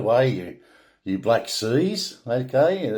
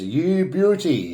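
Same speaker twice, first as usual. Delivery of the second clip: Aussie slang; 5 semitones higher, slower than usual. Shown as a demonstration. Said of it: "most often explained as".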